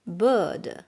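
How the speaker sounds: non-rhotic British vowel, no r sound; British accent. Shown as a demonstration. Teacher showing learners the vowel in urgent, British accent. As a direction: say it the British way, long open 'er'. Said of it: "Sounds like in British accent".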